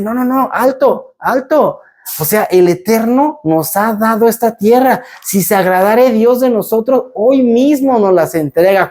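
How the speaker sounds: urgent halt. Retold or imitated. Caleb stops the people.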